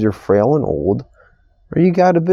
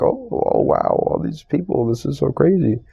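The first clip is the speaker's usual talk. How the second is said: high, breathless gawking at the crowds; wide-eyed amazement; 3 semitones higher than usual. Retold or imitated. New arrival in the big city, gawking in amazement. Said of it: "I'm like".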